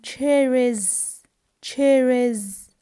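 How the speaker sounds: "cherries" drawn out with a voiced z ending; emphatic model of "cherries", S said as z; final S as Z. Shown as a demonstration. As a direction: buzz the end of each "cherries". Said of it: "also I pronounce the S".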